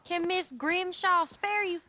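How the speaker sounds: slow teasing mimic of a man's question; mocking. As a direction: echo his words back, mocking him. Repeats Arthur's words mockingly.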